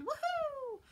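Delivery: high, bright whoop of excitement; excited cheer. Real, not acted. Host cheering the weekend to her viewers, excited whoop.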